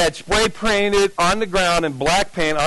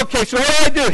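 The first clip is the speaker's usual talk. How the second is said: nervous squeak; 8 semitones higher, 5 dB louder, faster than usual. Retold or imitated. Scared kid after mobster's reply.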